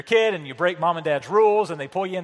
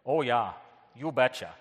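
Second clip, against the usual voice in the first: hammed-up Midwestern accent; Wisconsin accent; 3 semitones lower than usual. Shown as a demonstration. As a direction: do a folksy Wisconsin mother-in-law. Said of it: "my mother-in-law from Wisconsin".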